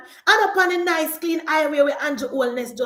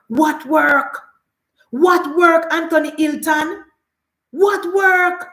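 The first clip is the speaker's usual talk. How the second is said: indignant challenge; 4 dB louder, slower than usual. Acted. Scornful challenge to the quoted claim.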